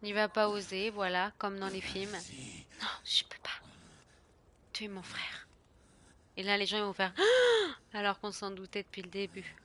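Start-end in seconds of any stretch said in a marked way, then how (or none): 2.8-5.5 whispered film-hero anguish; hammed-up whispered drama; mock dramatic whisper. Streamer parodying a film hero, dramatic whisper. Streamer voicing movie cliché. 7.2-7.9 high exaggerated gasp; mock gasp. Streamer imitating a shocked audience, mock gasp.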